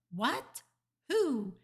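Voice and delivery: two startled squawks, rising in pitch; funny startled voice. A narrator's reading. Father hears who is calling, voice goes funny. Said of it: "his voice goes all funny".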